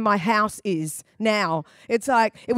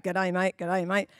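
lower, softer, rehearsing G'day, mate to yourself; practising under breath; 6 semitones lower, 5 dB quieter than usual. Retold or imitated. New citizen quietly practising the greeting, lower and softer. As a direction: mutter it like practice, low and soft. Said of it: "they probably prac".

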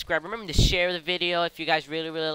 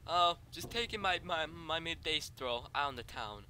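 soft, offhand character chatter; casual stroller; 12 dB quieter than usual. Acted. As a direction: say it quietly, as if idly strolling.

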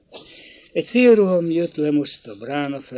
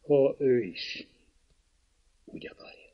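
kindly; 6 dB quieter than usual. A narrator's reading. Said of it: "jóságos hangon".

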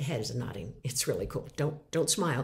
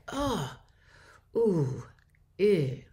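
sympathetic noises; much slower than usual. Shown as a demonstration. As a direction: react with small caring sounds. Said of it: "make noises like".

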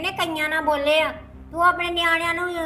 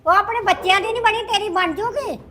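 fast, higher-pitched comeback; indignant retort; 4 semitones higher than usual. Acted. Mother warning son about his lover, indignant retort. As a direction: throw the doubt back at him, quickly.

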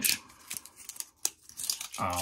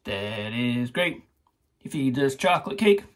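lightly voiced, slowed-down Cosby line; Bill Cosby quote. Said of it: "Bill Cosby, I think it was".

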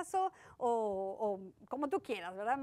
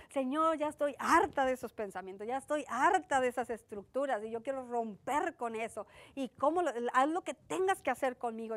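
retold prayer; 3 dB louder than usual. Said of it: "Yo le decía a Dios".

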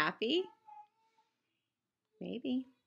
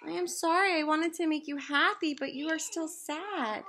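higher, louder sorry; loud apology; 3 semitones higher, 4 dB louder than usual. Acted. Piggy apologizing to Gerald, higher and louder. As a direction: apologize earnestly and loudly.

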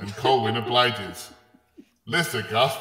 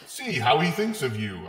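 mildly reassuring; 3 semitones higher than usual. Acted. Beast consoles Lissa about Colwyn, mildly reassuring. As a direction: offer it as gentle comfort, acted. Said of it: "I say reassuringly".

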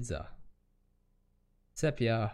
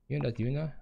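ordinary delivery

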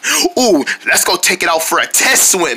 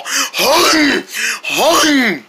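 grumpy groan; 4 semitones higher than usual. Acted. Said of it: "it sounds like a grumpy troll".

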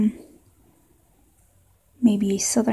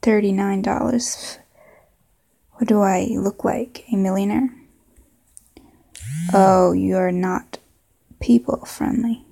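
put-on southern accent. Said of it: "maybe a southern accent".

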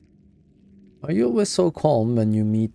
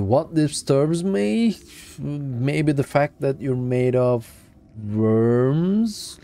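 incredulous; 4 semitones higher, 3 dB louder, much slower than usual. Real, not acted. Streamer answers creature's question incredulously.

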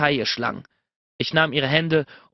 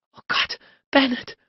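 high-pitched moaned cry; 11 semitones higher than usual. A narrator's reading. Narrator voices a woman crying to her lover, moaning. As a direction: moan it out, pitched well up. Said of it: "stöhnte sie".

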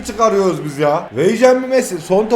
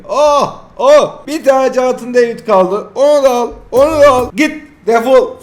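louder, higher triumphant calls; excited shouting; 5 semitones higher, 5 dB louder than usual. Real, not acted. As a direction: shout them away in glee. Celebrating the last players.

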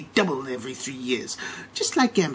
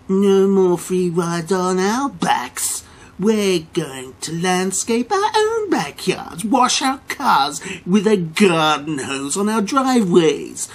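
slow, louder, hammering each phrase; defiant loud rant; 3 semitones higher, 5 dB louder, slower than usual. Acted. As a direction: pound out every threat. Defiant rant against Main Street.

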